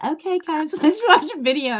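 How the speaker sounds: high, sweet mock streamer voice; sweet streamer intro, lightly mocked; imitating Alex. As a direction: play the adorable host, giggling. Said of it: "she'd be like".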